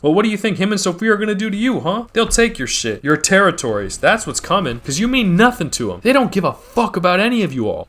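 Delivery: rally the rival crews, voice climbing high; heated mobster speech. Acted.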